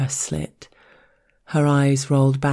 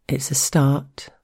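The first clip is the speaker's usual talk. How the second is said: even voice. Acted. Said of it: "I kept my voice even".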